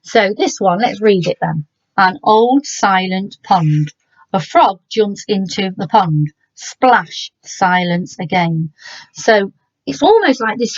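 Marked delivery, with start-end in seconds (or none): 2.0-8.7 slow, measured haiku recital; slow poem reading. Shown as a demonstration. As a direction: read the haiku slowly, savouring each line. Teacher reads haiku aloud.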